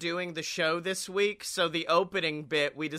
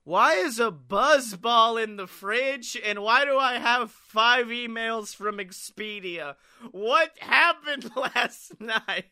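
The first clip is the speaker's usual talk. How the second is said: confused morning-after; 5 semitones higher than usual. Retold or imitated. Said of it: "is just like".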